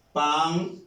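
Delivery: "Pantera" broken into pan, te, ra; "Pantera" split up with pauses between syllables. Shown as a demonstration. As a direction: say "Pantera" in three separated syllables. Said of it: "Suena más fuerte en esta sílaba".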